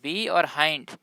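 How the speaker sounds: "बी" and "हाइंड" said as two separate parts; word split in parts. Shown as a demonstration. Teacher explaining why behind is read so, broken into two parts. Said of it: "इसीलिए हम इसको".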